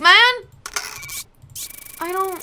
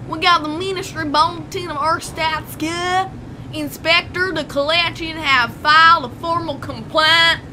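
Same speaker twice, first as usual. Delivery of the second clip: mock American country accent; put-on American accent. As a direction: read it out with an American twang. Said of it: "I don't know why I'm being American right now".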